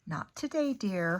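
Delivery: put-on mother gently turns down the girl; sighing mother. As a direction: let the refusal out on a sigh. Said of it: "her mother sighed".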